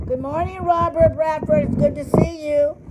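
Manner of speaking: cheerful greeting. Real, not acted. Greets viewer on camera.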